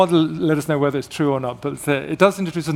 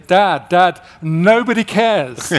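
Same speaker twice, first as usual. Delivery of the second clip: put-on kids groaning; 4 semitones higher, 7 dB louder, slower than usual. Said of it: "they'd be saying".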